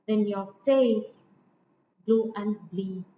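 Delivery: slow "Then your face", pause, "blue and bleak"; metrical stress. Shown as a demonstration. Lecturer scanning the verse for students, metrical stress. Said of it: "at times it is an iamb".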